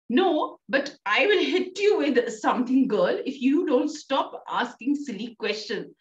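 a touch of a stern mother's threat; lightly acted scolding mother; mother warns her daughter to stop asking silly questions, mock stern; mild threat. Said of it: "So she says".

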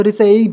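रिसीव misread with an "ay" vowel; wrong pronunciation. Shown as a demonstration. Teacher warning of a misreading, mispronounced रिसीव. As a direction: say रिसीव as "ri-sayv". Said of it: "नहीं तो रिसीव पढ़ेंगे".

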